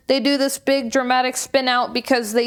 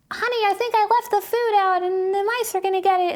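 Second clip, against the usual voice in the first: high, put-on housewife voice; imitating the wife fretting over the food; mock wife voice; 9 semitones higher than usual. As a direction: squeak it like a fussy cartoon wife. Wife's line in cartoon retold.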